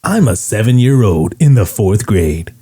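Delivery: radio host reading out a letter, slowing down; deliberate countdown-host impression with stretched words; Casey Kasem. Host reading a fourth grader's letter, deliberate radio impression. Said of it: "He would read it in his voice".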